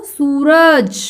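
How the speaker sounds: सूरज with a long ऊ, falling end; pronunciation demo. Shown as a demonstration. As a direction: model सूरज clearly for pupils. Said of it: "कैसे उच्चारण करना है देखो?".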